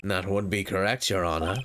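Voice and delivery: low, condescending prosecutor. Acted. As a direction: drop the voice, smug. Prosecutor character voice.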